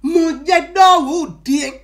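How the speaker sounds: 「Mon Dieu」を普通の速さで少し強く; plain translation. Shown as a demonstration. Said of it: "Si je vais traduire de façon terre à terre".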